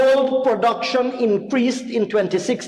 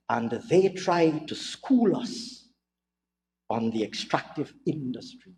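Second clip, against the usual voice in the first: mock authority; 7 semitones lower, 7 dB quieter than usual. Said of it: "with an air of great authority".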